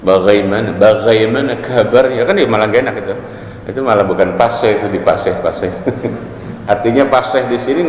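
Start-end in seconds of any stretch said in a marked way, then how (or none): 0.0-2.1 mock Quran-recitation style in everyday talk; tajwid talk. Shown as a demonstration. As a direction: recite a casual greeting like Quran reading. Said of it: "Ngomong kok pakai tajwid". (ngomong ala orang ngaji pakai tajwid)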